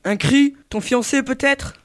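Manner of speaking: a touch of a sneer, drawn out slowly; mock the fiancé with a mild wicked sneer; nasty sneer. Phantom taunting Christine about her fiancé, mild sneer. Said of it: "avec un ricanement mauvais".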